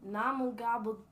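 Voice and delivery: loud nonsense breaking into laughter; playful gibberish demo. Shown as a demonstration. Showing how to improvise a language, playful loud gibberish. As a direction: build the silly syllables to a loud laughing finish. Demonstrates silly made-up language.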